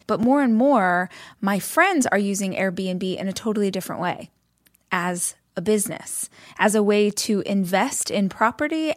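measured, friendly sponsor read. Acted. Parent recommending Airbnb hosting to listeners, polished ad read. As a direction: read it as a personal endorsement, clearly phrased.

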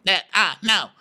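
high, insistent mock declaration; Sutton. Sutton defending herself to Diana, high insistence. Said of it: "you be Sutton".

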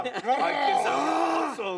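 drawn-out mock delight; mock savoring. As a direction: ham up the first sip of vodka. Imitating someone savoring drink.

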